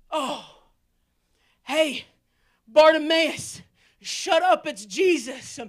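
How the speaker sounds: loud, scolding crowd telling him to shut up; mock crowd shout. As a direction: bark it like an annoyed crowd. Crowd hushing the blind man.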